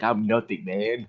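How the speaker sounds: lightly voiced laid-back hippie; a hint of a spaced-out hippie drawl; stoned hippie. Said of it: "He also sound like a hippie".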